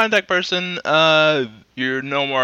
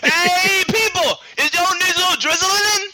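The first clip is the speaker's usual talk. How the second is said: much higher, slow pitchman voice; ad announcer; slower than usual. Acted. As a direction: sell it like a cheesy TV ad. Mock commercial pitch.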